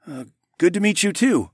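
a hint of a cheerful stranger; man voice. A narrator's reading. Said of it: "the man said".

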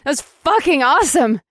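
excited shout. Acted. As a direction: shout it with delight. Excited cheer after flight.

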